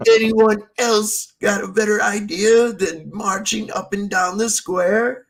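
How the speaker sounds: slow mock sergeant. Sergeant asks the ranks again.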